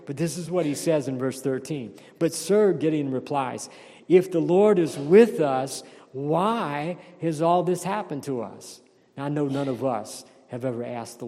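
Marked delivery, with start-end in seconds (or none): 2.2-2.7 higher, louder retold objection; protesting. Acting out Gideon challenging the angel. 4.1-8.8 loud start, easing into a drawn-out why; retold complaint to the angel, pressing the question; challenging question. Acting out Gideon questioning the Lord.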